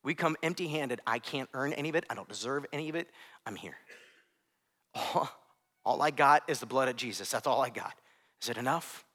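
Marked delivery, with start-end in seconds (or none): 1.1-9.0 humble prayer. Acted. Sinner coming to Jesus.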